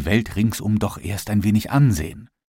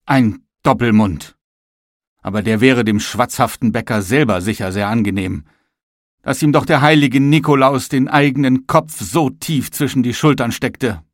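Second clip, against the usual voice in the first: indignant grumbling; 3 semitones higher, 3 dB louder than usual. Acted. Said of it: "rief der Tisch".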